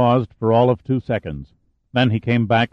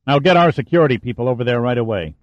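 urgent command; faster than usual. Acted. Admiral giving urgent orders.

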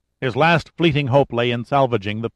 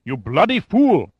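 slow, high-pitched indignant outburst; blurted outrage; 5 semitones higher, 4 dB louder than usual. A narrator's reading. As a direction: draw out the insult in outrage. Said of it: "Lugovoy blurted as the full realization".

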